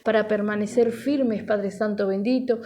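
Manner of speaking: steady, flowing congregational prayer; fervent prayer. Real, not acted. Pastor asking the Father to minister to listeners, fervent prayer. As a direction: pray earnestly in an unbroken stream of petitions.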